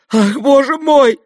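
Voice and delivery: high, loud, slow cry; horrified exclamation. A narrator's reading. Onlookers reacting to the slap, horrified. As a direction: exclaim in dismay.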